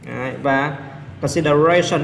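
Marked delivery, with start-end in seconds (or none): 1.2-2.0 consideration with RA punched; stress on fourth syllable. Shown as a demonstration. Teacher giving students another example, consideration stressed strongly on RA. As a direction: hit RA hard in consideration. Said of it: "Số bốn luôn".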